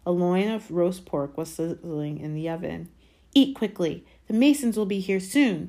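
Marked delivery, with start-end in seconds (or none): 3.3-5.7 raised, impatient order; mildly snappish aunt, higher and louder; snapping. A narrator's reading. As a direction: hurry him along crossly. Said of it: "snapped Aunt Petunia".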